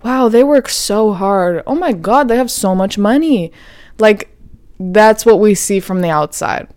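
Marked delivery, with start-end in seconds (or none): 0.0-3.5 envious gushing. Retold or imitated. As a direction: gush over someone else's perfect life. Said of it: "We think".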